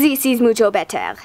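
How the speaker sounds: a hint of a fake French accent; vague French accent. Shown as a demonstration. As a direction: lightly put on a muddled foreign accent. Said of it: "French or whatever accent I'm doing".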